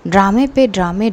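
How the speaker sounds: scoffing mock jab, voice lifting on पे; mock the daughter's drama with a light sneer; ड्रामे पे ड्रामे tossed out with a rising sarcastic lilt. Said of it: "पूजा की mom बोलती कि वाह".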